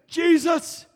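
high, loud desperate shout of Jesus; shouted cry. Retold or imitated. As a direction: cry it out with all your strength. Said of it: "I got this out".

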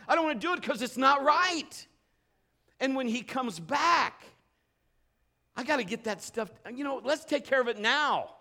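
high, loud urgent sermon; fervent preaching. Acted. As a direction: press the church to fear the Lord. Preaching at full force.

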